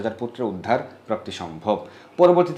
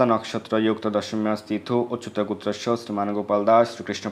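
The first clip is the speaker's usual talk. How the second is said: mantra recitation. Acted. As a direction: intone the mantra steadily, like a priest at the river.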